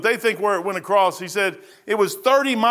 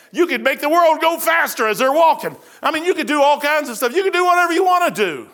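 higher, louder, building preacher cry; fiery preaching; 6 semitones higher, 5 dB louder than usual. Real, not acted. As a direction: rise into full pulpit fervour. Preacher arguing God's power.

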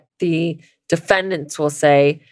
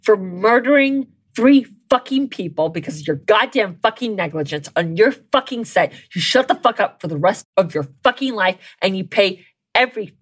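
real rant. Real, not acted. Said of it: "I'm so fucking angry".

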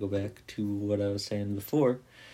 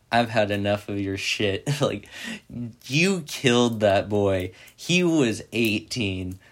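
louder, fired-up telling-off; angry outburst; 4 dB louder than usual. Retold or imitated. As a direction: let the anger build as you accuse. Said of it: "prison boy is like".

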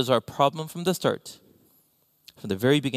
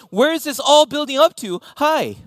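rising build-up; 8 semitones higher, 5 dB louder than usual. Acted. Building to the punchline.

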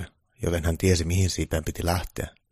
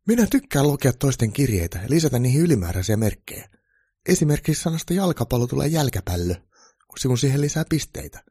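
high, louder troll character voice; troll applicant, defensive; 8 semitones higher, 5 dB louder than usual. A narrator's reading. Troll applicant explaining fake papers to Santa, high defensive voice. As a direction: protest in a raised, lively troll voice.

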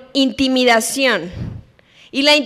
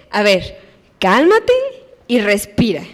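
soothing cálmate rising, respira lower; calming; 4 semitones lower than usual. Retold or imitated. Parent telling a crying child to calm down. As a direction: gently settle a crying child. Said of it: "¿qué hay que decirles?".

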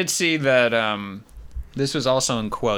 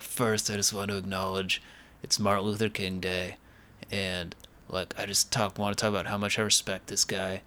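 quiet Seagal impression; 4 semitones lower, 5 dB quieter than usual. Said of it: "it starts with him saying".

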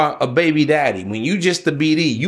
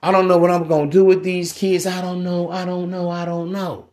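worried mother, fading. Retold or imitated. Baby mama voiced, fading worry.

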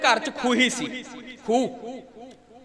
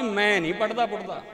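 put-on boy calling up; 4 semitones lower, 6 dB quieter than usual. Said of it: "ਬੱਚਾ ਥੱਲਿਓਂ ਆਵਾਜ਼ ਮਾਰਦਾ".

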